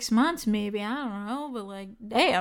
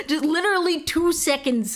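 laughing; 5 semitones higher than usual. Real, not acted. Laughing while mocking cameo fee.

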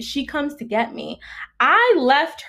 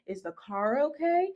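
concerned checking-in; 7 dB quieter than usual. Retold or imitated. Voicing the concern roommate never showed.

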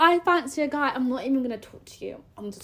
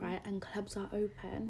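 very soft, hushed vow; conspiratorial whisper; 4 semitones lower, 15 dB quieter than usual. Pretend. Telling a friend the plan for clubbing, hushed whisper.

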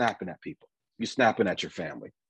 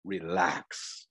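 soft, calm single word; calm reassurance; 5 semitones lower, 6 dB quieter than usual. Retold or imitated. Moses telling the people, soft and calm. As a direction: Moses calming the frightened people, softly reassuring. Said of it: "Moses said".

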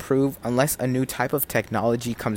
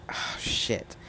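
a sudden whispered "oh, shit" under the breath; 4 semitones lower, 10 dB quieter than usual. Real, not acted. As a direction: breathe "oh, shit" to yourself, nearly silent. Mutters to self mid-thought.

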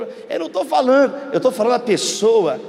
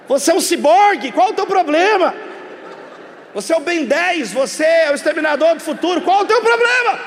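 mock exasperation; 4 semitones higher, 3 dB louder than usual. Mocking people beeping in security.

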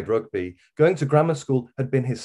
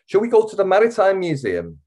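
coaxing question; 11 semitones higher, 6 dB louder than usual. A narrator's reading. Teacher coaxing child.

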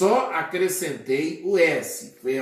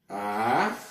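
syllable by syllable; 5 semitones lower than usual. Shown as a demonstration. Teacher breaking down the plural armazéns, syllable by syllable. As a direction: give each syllable of "armazéns" on its own. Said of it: "dividimos em sílabas".

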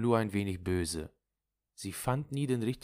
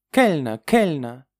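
drawn-out, raised call for service; impatient calling; 8 semitones higher, 10 dB louder than usual. Acted. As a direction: summon the waiter loudly, nervy and impatient. Impatient guest calls the waiter. (ungeduldig nach dem Kellner rufend)

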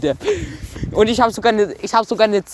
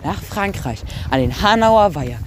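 infomercial. Pretend. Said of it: "vernünftige Werbung machen".

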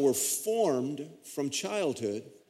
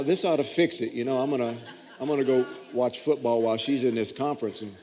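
laughing self-mockery; 3 semitones lower, faster than usual. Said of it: "his old smug thinking, laughing".

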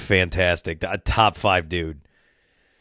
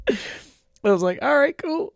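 much higher, laughing; slower than usual. Real, not acted. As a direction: squeak it out laughing. Laughing high at reaction.

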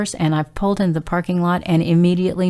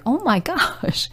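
laughing oh my gosh; 8 semitones higher than usual. Retold or imitated. Startled by woman yelling at her.

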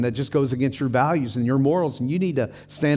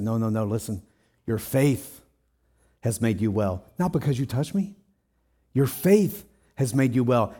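gentle reassurance; 3 semitones lower than usual. Retold or imitated. Jesus gently reassures the woman.

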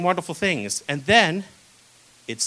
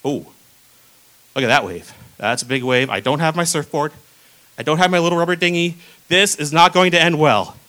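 mock-worried Peter; 2 semitones lower, 5 dB louder than usual. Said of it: "And he's like".

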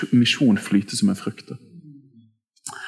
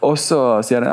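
normal talking voice

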